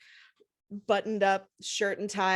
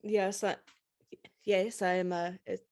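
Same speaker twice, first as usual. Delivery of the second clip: put-on Eastern European accent. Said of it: "going back to my Eastern European accent".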